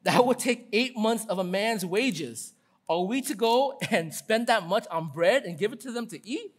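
stretched-out sarcastic objection. Acted. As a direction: read it as a mock-incredulous question. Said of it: "they answered very sarcastically".

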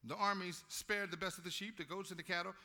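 confident, prideful Saul boasting to Samuel. Acted. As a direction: puff up like a proud king. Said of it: "he's confidently prideful".

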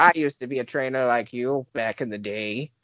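lightly voiced old trainer reminiscing; a hint of a nostalgic old man. Old trainer reminisces to the player, lightly voiced.

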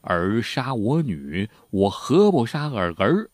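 lightly voiced emperor's cold threat; retelling the emperor threatening the widowed empress, slow menace; vicious threat. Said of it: "恶狠狠地说".

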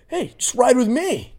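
imitating her invitation. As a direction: draw it out, coaxing. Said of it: "She goes".

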